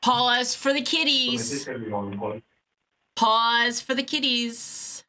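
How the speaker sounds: high, slow singsong to the hold; mock lullaby to the cats, drawn out. Caller singing to her cats while on hold, high and slow.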